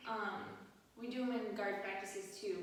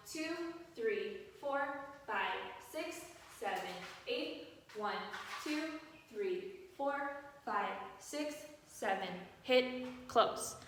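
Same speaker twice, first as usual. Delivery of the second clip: marching count; slower than usual. Shown as a demonstration. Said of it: "you continue your counting from there".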